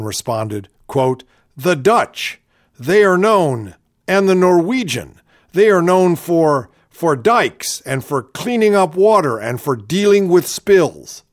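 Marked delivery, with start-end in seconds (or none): 1.5-11.2 a hammed-up folksy politician; parodying Palin's halting delivery; imitating Sarah Palin. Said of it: "I love the way she talks like this".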